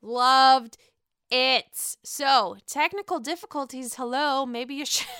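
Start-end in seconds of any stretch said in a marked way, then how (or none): 0.0-2.0 loud, slow oh love it; excited gush. Real, not acted. Vlogger loving Candace's go-go remix, gushing loudly. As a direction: savor it like a fan. Reacting to the performance.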